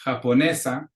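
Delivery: Japonesa with NE stressed, SA light; ja-po-NE-sa, second-to-last syllable stressed; stress on penultimate syllable. Shown as a demonstration. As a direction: lean on the NE in Japonesa. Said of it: "comes on the second to the last syllable".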